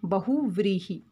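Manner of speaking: बहुव्रीहि spoken slowly with a clear v in the second syllable; careful pronunciation. Shown as a demonstration. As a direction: spell out बहुव्रीहि for the class, stressing the व. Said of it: "जो दूसरा वर्ण है वो हमारा व है". (स्पष्ट उच्चारण: बहुव्रीहि, व पर ज़ोर देकर)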